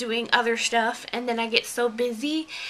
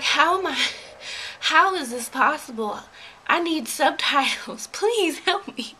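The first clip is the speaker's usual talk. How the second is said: mock bewilderment; 4 semitones higher than usual. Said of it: "and I'm like".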